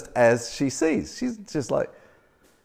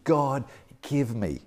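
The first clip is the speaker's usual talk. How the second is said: quiet, slow plea to God; a hushed asking prayer; soft pleading; 5 dB quieter, slower than usual. Retold or imitated. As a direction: ask humbly and softly. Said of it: "constantly asking God".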